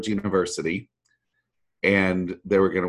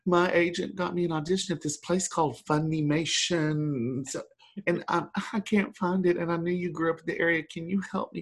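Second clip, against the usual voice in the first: higher, hushed mock panic; panicked friend; 8 semitones higher, 5 dB quieter than usual. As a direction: retell her frantic plea, pitched up and soft. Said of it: "she was in a panic".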